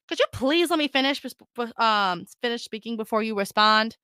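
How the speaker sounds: sassy mock-polite ask. Shown as a demonstration. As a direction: make the polite words sound snippy. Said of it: "Careful how you say this one".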